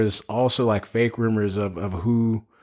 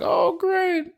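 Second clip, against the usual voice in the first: high-pitched mock "oh, great"; mock reaction. Retelling the moment another portal opens, high mock reaction. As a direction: jump way up high for a retold reaction. Retold sarcastic-sounding film reaction.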